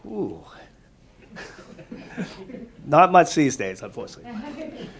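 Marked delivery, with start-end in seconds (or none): none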